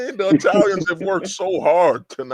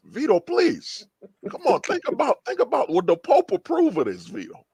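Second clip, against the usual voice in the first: mock pleading; 8 semitones higher than usual. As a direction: beg Vito to stop, mock-desperate. Pleading with Vito.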